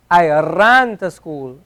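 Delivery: "I ran to school" slowly, the r in "ran" tapped like "ra"; the better way, tapped r in "ran"; slow demo of the tapped r; slow Arabic-flavoured r. Shown as a demonstration. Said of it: "This is closer to the, the ra".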